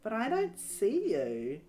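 put-on girl voice. Abby peering into doorway.

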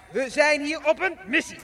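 loud, high motto bark; barked order. Acted. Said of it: "Zeg mij na".

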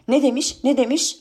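high, repeated crowd demand; clamouring women wanting to know; incredulous echo. Acted. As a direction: echo the question in high disbelief.

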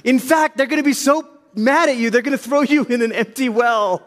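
high, emphatic divine call; God warning young Jeremiah; the Lord speaking. Retold or imitated. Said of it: "The Lord, he's".

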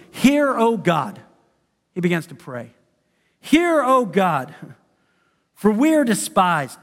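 slow, solemn prayer read aloud. Acted. Deliberate scripture prayer. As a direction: Nehemiah praying to God against his enemies, slow and solemn.

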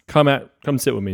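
tripping over the title; stumbling over the words; stuttering. Real, not acted. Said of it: "I'm stuttering through this whole thing".

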